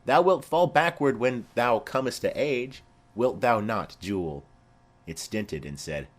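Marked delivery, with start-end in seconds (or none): 0.0-4.4 higher, louder mock voice of the jolly husband; merry husband. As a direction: ham up the husband's joke to the fallen child. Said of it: "quoth my husband".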